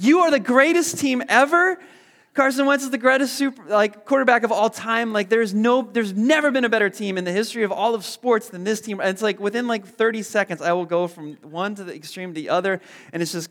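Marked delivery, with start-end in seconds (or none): 0.0-9.0 overjoyed fan. Retold or imitated. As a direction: rave like the Eagles just made a play.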